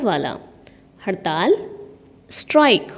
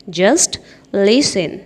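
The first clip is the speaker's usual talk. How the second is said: slow teaching repeat; 3 semitones lower, 4 dB louder, much slower than usual. Shown as a demonstration. Teacher modelling an English phrase for students, very slow. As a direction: stretch out "just listen", leaning on "just". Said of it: "teacher repeats phrase slowly".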